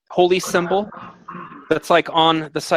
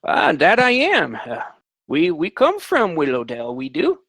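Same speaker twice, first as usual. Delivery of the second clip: put-on old man voice.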